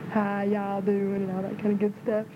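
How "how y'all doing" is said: slow, stretched Southern "How y'all doing?"; Southern drawl. Retold or imitated. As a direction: lay on the Southern accent, drawn out. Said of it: "they talk real".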